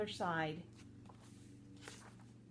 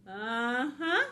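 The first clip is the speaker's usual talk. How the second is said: sly snake voice; 3 semitones higher, 6 dB louder than usual. Acted. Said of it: "Mister Snake?".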